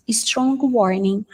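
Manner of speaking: Strong warning said slowly, stressing strong; slow teacher modelling; slow model phrase. Shown as a demonstration. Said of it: "teacher model".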